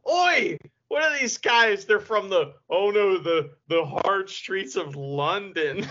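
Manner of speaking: lightly mock a London hooligan accent, drawn out. Mocking a wrestler's taunt about London thugs, slow London accent. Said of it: "Hanari's hilarious 'cause he's like".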